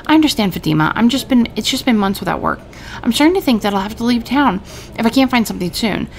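lightly voiced man, a bit desperate; a hint of a worried jobless tailor; pleading tailor. Maurice begging Fatima for work, mildly pleading.

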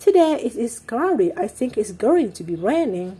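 slow, clear example sentence, "Today it is cloudy. I think it's going to be raining." read for learners; unhurried teacher reading of the sentence. Shown as a demonstration. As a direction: read it out very slowly for the class. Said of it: "เช่น".

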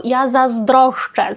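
заzdroszczę said slowly and carefully; correct Polish form. Shown as a demonstration. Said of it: "перекручена форма від заздроszczę".

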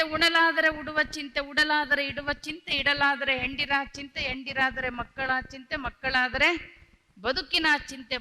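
measured, rhythmic recitation of verse lines; reciting a vachana. Acted. Preacher reciting verse to the gathering, rhythmic and deliberate. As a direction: chant each line as a sacred saying, with stretched pauses.

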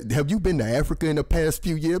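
P=A; imitating hospital staff. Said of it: "they always".

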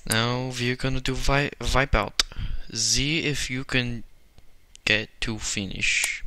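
put-on German accent. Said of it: "I'm doing it right now".

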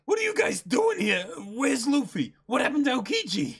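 high, loud alarmed shout; alarmed yell. Acted. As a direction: yell at the crew in shock. Character yells at returning crew.

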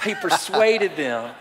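slow, own-voice "persuaded" broken by a laugh; laughing through it. Real, not acted. Preacher laughing at his own try at the pastor's word, laughing. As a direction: laugh mid-line while saying "persuaded". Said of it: "At least you did it with a better accent".

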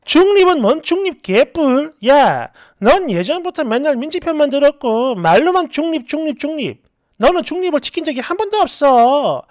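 mild mock yell, scornful; acted angry yelling. Friend rejects the claim of being neutral, angry. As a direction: lash back crossly at the excuse. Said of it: "버럭버럭 소리 지르고 화를 내더라고요".

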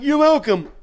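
very high falsetto yell; comic screamed courtesy; mock shout. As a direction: shriek it back over the band. Shouted exchange over loud guitars.

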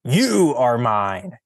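slow, loud, possessive declaration; possessive claim. Acted. Fausto claiming the sheep, slow and commanding. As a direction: stake a claim, slowly and firmly.

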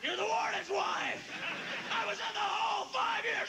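hammed-up prisoner; mock prisoner. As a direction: play the eager escaped convict. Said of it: "You go".

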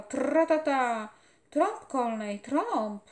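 loud, urgent feverish raving; a sick boy shouting in delirium; feverish delirious boy. A narrator's reading. Dying boy calls out to the general in fever, loud raving.

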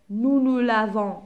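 slow, drawn-out dictation to pupils; slow, deliberate teacher dictation. Shown as a demonstration. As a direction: spell it out slowly for the class. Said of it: "dictating conjugation slowly".

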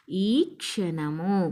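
ఈ క్షణము with క్ష read as in క్షణం, not అన; slow and careful, క్ష joined into one sound. Shown as a demonstration. Teacher shows children how to say క్ష, slowly. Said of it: "నాలాగా పలకాలి".

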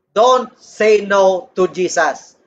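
"Don't say no to Jesus." slowed right down, each word drawn out; slow, deliberate repeat. Shown as a demonstration.

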